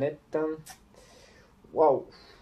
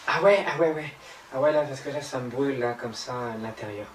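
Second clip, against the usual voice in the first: mock medium; 4 dB louder than usual. Mocking the medium's act.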